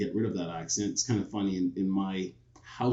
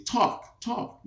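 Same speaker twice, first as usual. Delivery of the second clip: put-on high, childish chant of talk; kids begging him to talk; 13 semitones higher than usual. Kids at recess circling the new boy, high chanting. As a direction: mimic the kids egging him on. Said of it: "would all gather around me and say".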